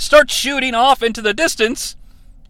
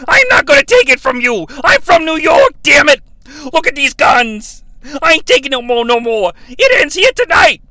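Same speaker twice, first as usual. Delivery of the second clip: ranting promo; 4 semitones higher than usual. Retold or imitated. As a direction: puff up and rant at the crowd. Russo's angry promo.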